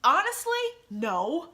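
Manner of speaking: a sudden loud, high "Honestly", then a flat "no"; blurted honest answer. Retold or imitated. Rushing rider blurts her answer to the driver. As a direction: blurt it out, overwhelmed. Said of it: "And I'm like".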